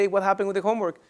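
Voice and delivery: even, controlled question; calm parent. Acted. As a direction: ask calmly, feelings in check. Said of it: "you know how to control your feelings".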